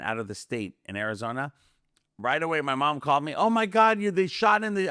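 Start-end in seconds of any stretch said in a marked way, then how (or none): 3.3-4.9 high alarmed retelling of mom; breathless news from a frantic mom; a mom blurting the news in a panic; mom panicking. Retold or imitated.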